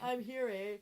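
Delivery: put-on echoing "I'm here, eh?" in a Canadian accent; playful Canadian "eh?". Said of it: "I slip back into my Canadian accent".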